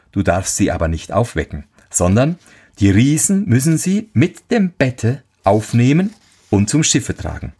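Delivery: lightly voiced helpful horse; talking horse. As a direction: instruct him like a wise little horse.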